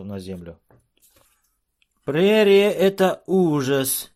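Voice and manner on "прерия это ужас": high, loud, strained dwarf voice; dwarf gasping out words. A narrator's reading. Frozen dwarf to the chief, high and strained. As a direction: squeeze the words out, shivering. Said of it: "едва выговорил он".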